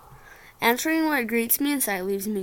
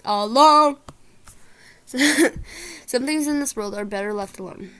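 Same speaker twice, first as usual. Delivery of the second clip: ominous slow warning; 2 semitones higher, 5 dB louder, slower than usual. Acted.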